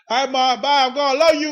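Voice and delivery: high, loud whining goodbye; mock loving goodbye. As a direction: cry it out to mom, hammed-up. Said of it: "I'm like, I, I said".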